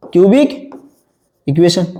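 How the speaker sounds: "क्यूबिक", long pause, "इक्वेशन"; word by word. Shown as a demonstration. Teacher repeats a new term for class, with a long gap. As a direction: hand over the term one separate word at a time.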